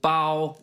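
"Bao" on a high, level tone; first-tone pronunciation. Real, not acted. Guest names a Taiwanese restaurant, first-tone pronunciation. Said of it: "I like how you pronounced it".

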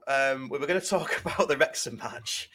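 laughing nervously through the words; a shaky breakdown laugh mid-sentence. Real, not acted. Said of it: "That's, that's a nervous laugh".

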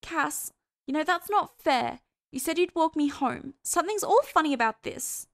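high, loud character complaint; Hester protesting. A narrator's reading.

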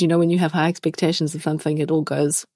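wheezy, chesty voice. Real, not acted. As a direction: talk through a lingering cough. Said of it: "which is why I sound so wheezy".

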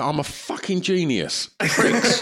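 high, laughing mock artist rant; brooding anguished artist. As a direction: sneer it like a wounded genius. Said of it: "Why don't I get that?".

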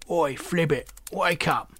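croaky little toad; rough toad calling his mate. Acted. Toad character voice.

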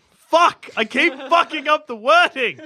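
sudden loud frustrated curse; frustrated fuck. Real, not acted. Host botching the podcast intro again, loud frustrated curse. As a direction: snap out the curse in real frustration.

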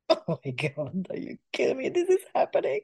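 rising squeal of excitement; thrilled whispered then squeaked; excited gasping disbelief; giddy disbelief. Retold or imitated. Excited retold reaction to email.

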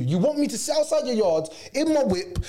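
sarcastic what-do-you-want reply. Retold or imitated. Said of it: "you're like".

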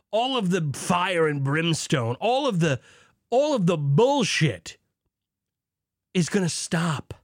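lightly voiced Southern preacher. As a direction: preach it like a revival sermon. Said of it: "I dipped down to a little bit of a Southern preacher there".

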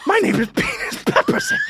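very high, laughing squeal; absurd squeaky declaration. Acted. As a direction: squeal the name through a laugh. Improv character declares his new name.

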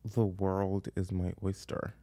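slow American take on "The world is my oyster"; American accent. Shown as a demonstration. Trying the hardest American phrase, slow American accent. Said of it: "hardest word to say in an American accent".

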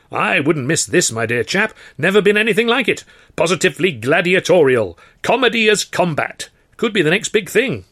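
put-on high, loud and hammy old trouper; hearty theatrical gent. A narrator's reading. George gushing to Arthur about the contest, hearty theatrical. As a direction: play the grand showman gushing.

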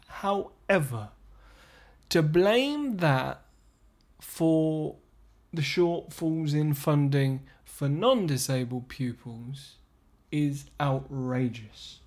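slow, measured, forced composure; calm and calculated. Real, not acted. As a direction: keep it slow and controlled, holding back anger. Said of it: "I'm being very calm and calculated about this right now".

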